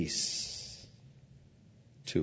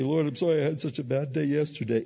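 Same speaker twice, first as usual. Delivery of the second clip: prayed apology; 5 semitones higher, faster than usual. Retold or imitated.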